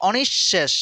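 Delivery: অনিঃশেষ said as o-nish-shesh, doubled sh; teacher's model of অনিঃশেষ; correct pronunciation. Shown as a demonstration. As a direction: model the word অনিঃশেষ carefully. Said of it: "এটা হবে অনিঃশেষ".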